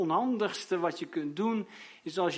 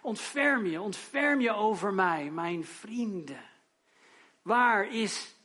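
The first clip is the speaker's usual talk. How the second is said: raised, slow pleading cry for mercy; Job crying out; 3 semitones higher than usual. Acted. Job begs his friends for mercy, a raised plea. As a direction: beg the friends to have pity. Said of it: "roept hij het uit".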